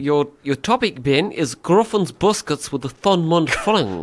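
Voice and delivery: hammed-up Kiwi vowels; New Zealand accent. Host giving the contestant a topic, New Zealand accent. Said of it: "you can do the New Zealand accent".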